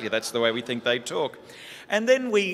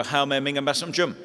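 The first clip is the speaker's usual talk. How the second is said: "Hail Mary, Mingum Basum Jum" rushed and run together; sped-up slurred prayer; faster than usual. Retold or imitated. Boy speeding up the prayer for his uncle, gabbled. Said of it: "Speed it up".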